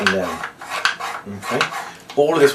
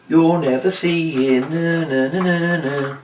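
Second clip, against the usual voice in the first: higher, teasing no no no; teasing sing-song; 7 semitones higher, slower than usual. Shown as a demonstration. To the shouting children, a higher teasing sing-song. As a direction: taunt the children, drawn out.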